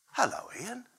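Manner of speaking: soft, unvoiced hello; hushed greeting. Old coach greeting Ian Wright off camera, hushed. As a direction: greet him gently, almost breathed.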